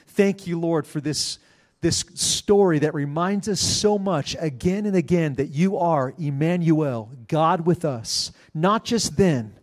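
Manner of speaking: earnest spoken prayer, slowing on key phrases. Acted. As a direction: pray it sincerely, leaning into each petition. Pastor prays aloud to close.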